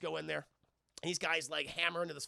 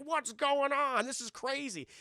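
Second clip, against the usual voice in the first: mock angry chief; 7 semitones higher, 4 dB louder, slower than usual. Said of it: "angry black police chief".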